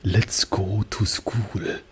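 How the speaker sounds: slow, drawn-out mid-Atlantic villain read; sophisticated mid-Atlantic accent, very slow. Shown as a demonstration. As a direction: purr "school" like a posh mid-Atlantic villain. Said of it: "sophisticated mid-Atlantic accent".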